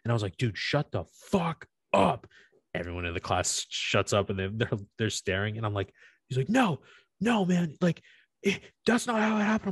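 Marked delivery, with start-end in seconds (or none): 0.4-2.3 retold telling-off. 6.5-9.7 very high whiny mock protest; hammed-up high whine of the other guy; mocking whiny classmate. Classmate whining, mocked high.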